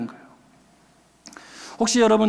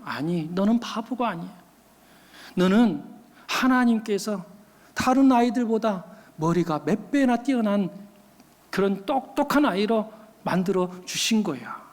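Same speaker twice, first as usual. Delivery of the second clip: slightly lowered, gently consoling voice; comforting mother; 2 semitones lower than usual. Retold or imitated. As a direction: imitate a mother soothing her child, with pauses. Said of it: "하면서 다독여 주었다는".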